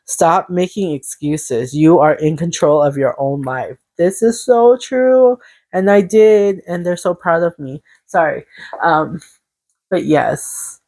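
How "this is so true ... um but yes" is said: tearful. Real, not acted. Telling viewers her spirit team is proud, tearful. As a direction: voice rising as tears come.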